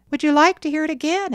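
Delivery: put-on high, quick, eager boy; radiant. A narrator's reading. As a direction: offer it eagerly, beaming with pride.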